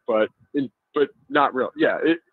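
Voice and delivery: halting, stumbling restarts; stammering. Real, not acted. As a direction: trip over the words a little. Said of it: "I'm stammering my way through this".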